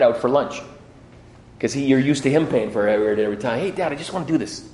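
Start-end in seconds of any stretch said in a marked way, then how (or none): 3.6-4.6 quick offer. Retold or imitated.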